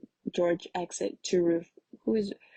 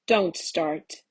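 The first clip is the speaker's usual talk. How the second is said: a read-aloud yell, a touch louder; 4 dB louder than usual. A narrator's reading. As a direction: snap it out as a mild yell.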